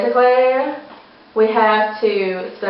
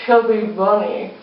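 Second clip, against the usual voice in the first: barely intelligible, cheeks packed; mouth full. Real, not acted. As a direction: force it out through marshmallows. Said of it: "We have to say Chubby Bunny".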